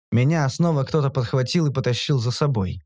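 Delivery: plain reading voice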